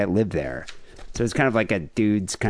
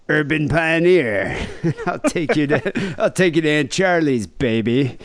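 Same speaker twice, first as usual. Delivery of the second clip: hammed-up, drawn-out high brag, laughing; mock smooth boasting; 5 semitones higher, slower than usual. Bragging to impressed girls about a date spot, mock smooth boasting. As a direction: play the big-shot date, half laughing.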